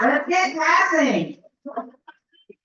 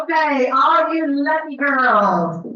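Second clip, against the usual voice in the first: calling out; 3 dB louder, slower than usual. Real, not acted. Calling out to the winners.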